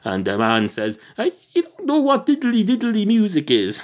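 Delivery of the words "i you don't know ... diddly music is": much higher, outraged disbelief; can't believe the cat doesn't know; incredulous barman. Acted.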